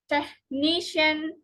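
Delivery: techNIcian, slow, weight on NI; stress before suffix. Shown as a demonstration. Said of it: "the syllable just before the suffix".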